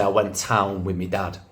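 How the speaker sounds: put-on quoting a Manchester kid, "me dad"; Manchester dialect. Pupil telling teacher about the weekend, Manchester dialect. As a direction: say it like a Manchester schoolkid. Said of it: "the kids would say".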